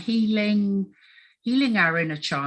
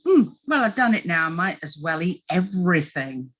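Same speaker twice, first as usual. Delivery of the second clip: put-on rebellious child. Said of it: "That's the rebellious child".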